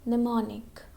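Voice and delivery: "Mnemonic" starting on an N sound; silent M. Shown as a demonstration. Teacher models the word, first M silent. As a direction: say "Mnemonic" as nuh-MON-ik, no first M. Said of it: "This M is silent".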